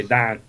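Don said like Dawn; Pittsburgh pronunciation. Shown as a demonstration. Explaining the local accent, Don said like Dawn. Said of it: "that's what we say".

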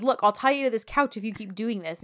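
retold threat, only lightly heated; firm warning. Same threat, corrected to his voice.

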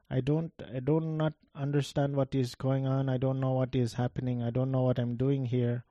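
a light imitated Indian accent, soft and confused. Juror telling the judge he is lost, light Indian accent. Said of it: "I'm going to do a voice just because this is what he sounded like".

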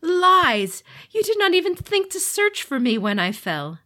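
screaming, high furious fallen god; enraged demon lord. Acted. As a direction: roar the accusation in fury. Fallen god rages at siblings.

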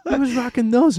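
high, loud, laughing delivery; laughing with delight. Real, not acted. Co-host cracking up over the motorcycle gloves, laughing hard.

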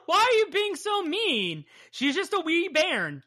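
high, pleading Scottish voice; co-host teasing a friend in a high Scottish voice; mock Scottish defence. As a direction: plead for her in a Scottish lilt.

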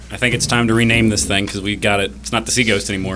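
low, soft sailor voice; low gruff pirate. Acted. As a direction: rumble it like a burly sailor. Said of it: "Big Nick pipes in".

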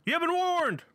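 high, dramatic spooky warning; spooky ride narrator. Acted. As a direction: warn them like a haunted ride.

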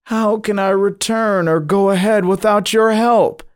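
high-pitched, desperate wail. A narrator's reading. Dreamer answers the threat of being left behind, wailing. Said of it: "At this threat I wailed".

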